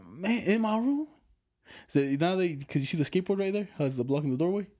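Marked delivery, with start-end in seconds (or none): 0.1-1.1 slow dismayed groan. Retold or imitated. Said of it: "And I was like".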